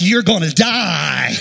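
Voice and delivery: slow, drawn-out doom call with a falling end; menacing paddle whistle. Retold or imitated. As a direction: stretch it out like a whistling threat. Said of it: "the whistle was like".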